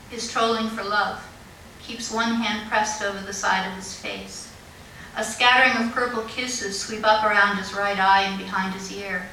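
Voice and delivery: measured poem recital with pauses between phrases; poetry reading. Acted. Poet reading a tribute to a little girl, measured recital. Reads second poem aloud.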